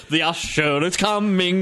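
slow, drawn-out usher's proclamation; mock usher announcement. Podcaster mocking noisy ushers, a slow mock announcement. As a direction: herald the usher like a drumroll.

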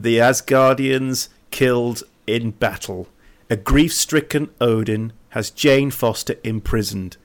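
measured, deliberate storytelling read; story recap narration. A narrator's reading. Co-host reading the sad Asgard plot recap, story narration. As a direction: narrate it with weighted pauses.

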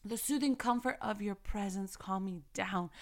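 quiet, tender reading of the soothing comfort line; soft verse reading. Acted. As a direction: let it settle softly. Softly repeating the verse.

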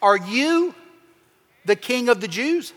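rising, mocking disbelief; incredulous sarcastic. Shown as a demonstration. Pilate sarcastic toward Jesus, incredulous rising question. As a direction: sneer the question as if it can't be. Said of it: "emoted more like this".

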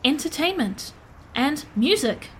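measured, deliberate robot phrasing; earnest robot praising a companion; literal-minded robot. Acted. Plays a robot character.

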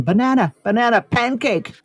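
half-hearted imitation of a screamed code; retold scream. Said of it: "that they scream".

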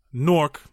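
Newark said as one syllable, Nork. Shown as a demonstration. Guest host tries the hometown name, Newark squashed to Nork. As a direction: run Newark together into Nork. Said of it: "if I'm pronouncing it correctly".

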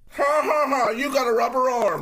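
high, loud taunting cackle with a jeer; mocking laugh. Rival jeering at the narrator's softball arm, loud mocking laugh. Quiznos Dan mocking at party.

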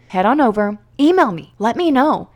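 high and loud, bright invitation; eager pitch lifted high; excited. Real, not acted. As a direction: call out eagerly to the viewer. Excited call to action.

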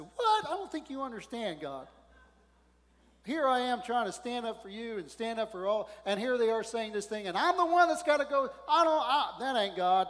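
high, loud, disbelieving outburst at God; indignant protest. Retold or imitated. Preacher arguing back at God, indignant and loud.

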